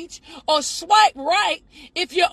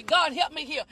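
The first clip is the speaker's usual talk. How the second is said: muttered aside; 2 semitones lower, 8 dB quieter than usual. Real, not acted. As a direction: mutter it as a private plea.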